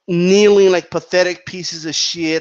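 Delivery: mimicked insult with weight on KNEELING and PATHETIC; imitated insulting emphasis. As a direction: quote it, pressing on KNEELING and PATHETIC. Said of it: "put emphasis on words that are insulting".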